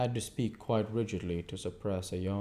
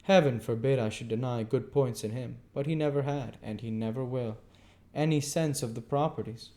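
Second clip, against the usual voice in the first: gentleman; 5 semitones higher than usual. Acted. Raymond continues.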